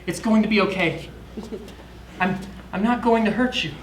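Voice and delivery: soft soothing voice for a dog; calm a scared animal softly; gentle soothing. Acted. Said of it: "lowers his voice, trying to speak kindly".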